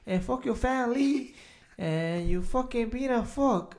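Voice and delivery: high, loud, indignant mock Asian accent. Smoker cussing out the man who scolded him, indignant mock Asian accent. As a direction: rant back in a caricatured Asian accent. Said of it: "Some fucking Asian fuck".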